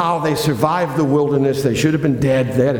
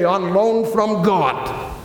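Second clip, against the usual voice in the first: slow, lightly voiced radio host catchphrase; drawn out slowly like a radio host; Rush Limbaugh catchphrase; 2 semitones higher, much slower than usual. Preacher borrowing a radio catchphrase, slow and mock-grand. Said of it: "as Rush Limbaugh would say".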